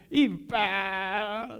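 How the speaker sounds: drawn-out mock impact sound; imitated shove noise. Preacher acting out the woman shoving the rock, drawn-out "pá". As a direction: act out a big push with one sound.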